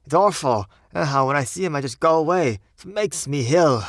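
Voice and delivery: high, loud Cockney revulsion; loathing and horror. A narrator's reading. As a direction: recoil in Cockney from what you saw. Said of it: "loathing and horror of Thomas's face".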